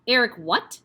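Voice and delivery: shouted. Acted. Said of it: "the Trunchbull shouted".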